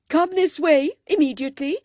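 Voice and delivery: loud, high curt command. A narrator's reading. Cecil commands the ladies to follow him, loud curt order. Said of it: "commanded Cecil".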